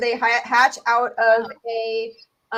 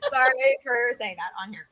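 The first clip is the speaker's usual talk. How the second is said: laughing. Real, not acted. Laughs at own swear word.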